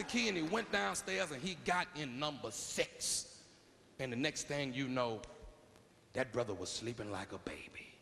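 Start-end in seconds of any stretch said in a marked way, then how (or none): 6.1-7.9 whispered soft and low, as if not to wake him; hushed whisper. A narrator's reading. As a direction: hush it like someone is asleep nearby. Narrator hushes the sleeping scene.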